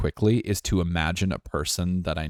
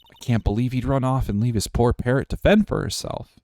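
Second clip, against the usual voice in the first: lightly raised, concerned character voice; a touch higher, pitying; Maya; 5 semitones higher than usual. Acted. Character pitying the abandoned parrot, slightly raised voice. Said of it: "a little higher".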